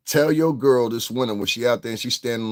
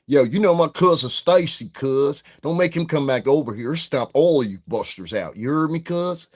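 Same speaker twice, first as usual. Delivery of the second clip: put-on high, loud Southern California street accent, tough-guy threat; California gangster accent; 6 semitones higher, 4 dB louder than usual. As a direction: play a California hood cousin threatening busters. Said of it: "three different California accents".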